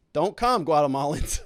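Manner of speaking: hammed-up scolding of would-be migrants; mock stern warning. Mocking Kamala's Guatemala warning.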